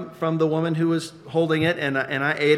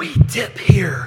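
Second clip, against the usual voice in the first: loud, carrying stage whisper; 5 semitones higher, 5 dB louder than usual. Retelling what a man finally said as both held a cup; retelling a loud whisper. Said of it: "in this kind of loud whisper".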